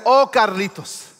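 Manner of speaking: a lightly voiced wise dad, amused; voicing his father. Dad answering son on phone.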